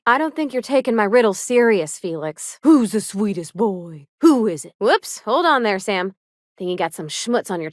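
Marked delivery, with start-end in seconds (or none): 2.6-4.7 slow cooing pet voice to a robot; baby talk. Acted. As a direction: coo at him like a puppy. Cooing over robot Sam.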